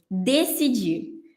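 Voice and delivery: "decidir." stretched very slowly, syllable by syllable; slow, drawn-out word. Shown as a demonstration. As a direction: draw out "decidir." like a key term on the board. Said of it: "Quarto passo". (palavra "decidir." dita bem devagar, arrastada)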